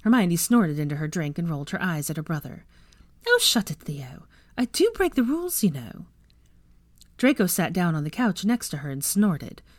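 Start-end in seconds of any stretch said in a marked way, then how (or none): 3.2-6.1 half-whispered brush-off; teasing retort. Acted. Sister hushing her teasing brother, half-whispered. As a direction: wave off the teasing under your breath.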